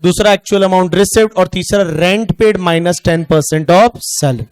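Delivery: slow, spelled-out list for students; teacher reads each term slowly; slow dictation. Shown as a demonstration. Teacher dictating the formula slowly to class. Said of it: "ऐसे आंख बंद करके सोचो".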